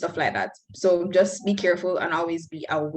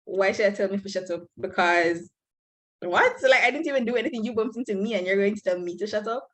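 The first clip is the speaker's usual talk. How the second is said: retold indignation; faster than usual. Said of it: "I looked at my friend and I was like".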